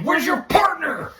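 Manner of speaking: high, slow mocking taunt; taunting movie quote. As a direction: draw the question out as a taunt. Quoting villain taunting cop.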